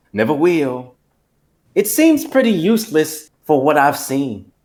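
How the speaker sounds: put-on unpanicked country accent, measured phrases; Foghorn. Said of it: "I felt like I was being Foghorn".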